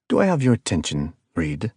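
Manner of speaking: lightly voiced cold caller with a hint of South American accent; icy calm villain. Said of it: "The speaker was still calm".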